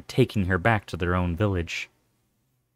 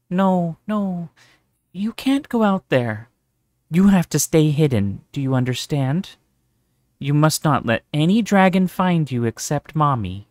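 higher, pressing motherly warning; urgent anxious mother; 6 semitones higher, 4 dB louder than usual. A narrator's reading. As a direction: warn the child firmly but gently. Mother urgently warns child.

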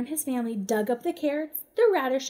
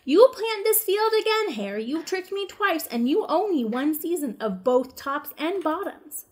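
louder, higher demand; a hint of a growling bear; mild mock growl; 4 semitones higher, 4 dB louder than usual. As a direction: Bear demanding a fair season. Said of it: "Bear growled".

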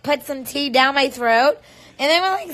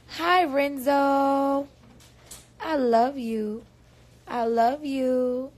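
tender; 3 dB quieter, slower than usual. Real, not acted. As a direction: speak slowly and tenderly to the babies you miss. Talks tenderly to her absent children.

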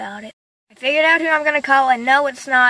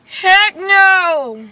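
exclaiming; 5 semitones higher, 6 dB louder than usual. Real, not acted. Ranting after the call.

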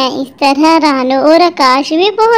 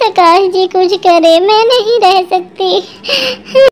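grieving mother. Acted. Wife mourns lost children.

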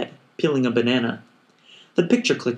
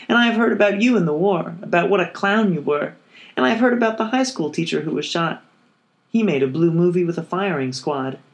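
higher-pitched woman's part, lightly acted; a light, raised voice for Montana; lightly voiced Montana; 5 semitones higher than usual. Montana answers Billy about the war, lightly voiced in higher pitch.

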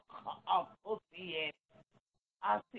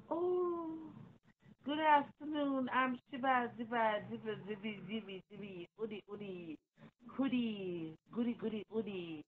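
mocking her greeting; 7 dB quieter than usual. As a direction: parody her prim hello, then let it dwindle. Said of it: "You say".

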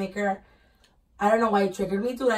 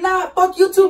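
higher-pitched imitation of a defiant comeback; mock angry retort; 7 semitones higher, 4 dB louder, slower than usual. Acted quote from a fight.

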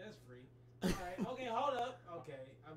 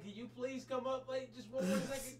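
dragon voice; 9 semitones higher than usual. Acted. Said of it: "him to be the voice of the dragon".

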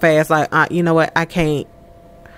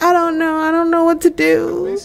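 voicing Amina; 9 semitones higher than usual. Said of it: "She's like".

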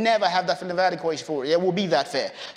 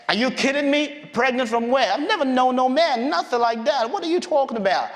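mildly incredulous, pitched higher; acted shocked protest; startled disbelief; 4 semitones higher than usual. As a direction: protest as if the news makes no sense. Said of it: "that's gonna scare you to death".

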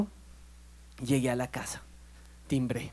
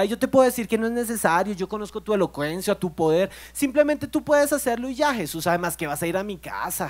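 mock false humility; 4 semitones higher, 3 dB louder than usual. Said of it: "un falso humilde que se presenta delante de Jesús".

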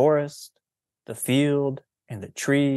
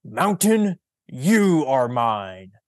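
clear voice; 3 dB louder, much slower than usual. Acted. Fausto calling out to the mountain in a clear, slow voice. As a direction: announce it clearly and slowly. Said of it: "in a clear voice".

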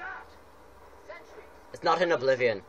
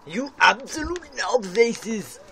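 furious shout; 10 semitones higher, 4 dB louder, much slower than usual. Real, not acted. Player yells at game enemies.

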